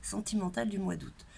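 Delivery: nasal, congested voice with a sore throat. Real, not acted. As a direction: speak through a blocked, stuffy nose. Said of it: "j'ai la voix nasillarde, j'ai la gorge qui est prise".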